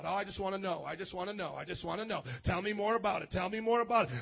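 mock knowledge-seeker. Mimics people wanting only head knowledge.

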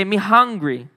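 lightly Jamaican-accented patois. Shown as a demonstration. Preacher showing the youth patois, light Jamaican accent. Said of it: "That's how you say it in Jama".

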